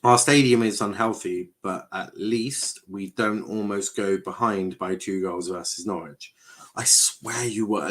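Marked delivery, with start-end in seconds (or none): 0.0-6.3 slow, careful re-read of a chat message; deliberately slowed reading aloud; read slowly. Shown as a demonstration. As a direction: spell it out slowly so nothing is missed. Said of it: "let me read that again slowly".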